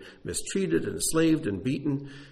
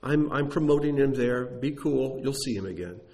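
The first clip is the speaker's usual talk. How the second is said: reassuring God; 4 semitones higher than usual. Pretend. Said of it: "God could have just said".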